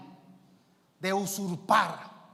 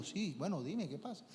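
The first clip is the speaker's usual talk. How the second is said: weary pastor; 7 dB quieter than usual. Retold or imitated. Pastor answering wearily.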